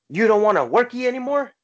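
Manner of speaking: loud, high mock Hispanic accent. Foreman taunting resting workers, loud mock Hispanic accent. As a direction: imitate a boss faking a Hispanic accent. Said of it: "he did in his best, uh, Hispanic accent".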